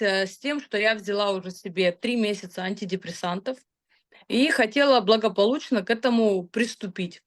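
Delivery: ordinary delivery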